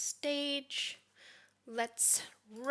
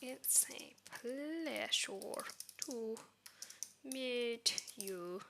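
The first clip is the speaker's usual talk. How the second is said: slow friendly greeting; 7 dB quieter, much slower than usual. Shown as a demonstration. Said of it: "Happy, friendly tone".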